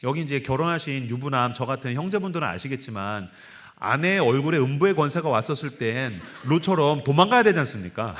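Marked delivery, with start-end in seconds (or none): 3.8-8.1 laughing. Real, not acted. Joke about the angry wife.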